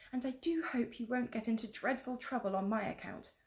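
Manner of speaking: put-on a kind girl's earnest hope; lightly voiced young girl; young Lucy.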